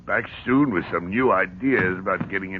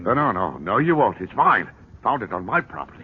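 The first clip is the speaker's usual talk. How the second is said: angry refusal; 4 dB louder than usual. Acted. Refuses to give up statue.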